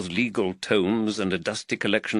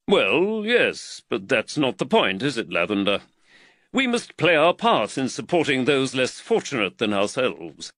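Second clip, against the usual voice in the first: slightly raised, earnest magistrate voice; the worried magistrate, lightly voiced a touch higher; voice of Reed; 4 semitones higher than usual. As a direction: magistrate fretting over costs, lightly voiced.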